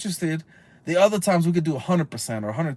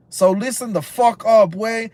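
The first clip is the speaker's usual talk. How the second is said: angry scolding; 3 semitones higher, 3 dB louder than usual. Real, not acted. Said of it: "I'm getting angry".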